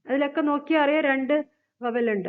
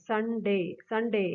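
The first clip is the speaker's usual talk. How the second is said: "സൺഡേ" as two distinct sounds, സൺ and ഡേ; two separate syllables; 4 dB quieter, much slower than usual. Shown as a demonstration. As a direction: say "സൺഡേ" in two clear beats, സൺ then ഡേ. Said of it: "different ആയിട്ട് തന്നെ പറയുന്നു". ("സൺഡേ" രണ്ട് ശബ്ദമായി വേർതിരിച്ച്)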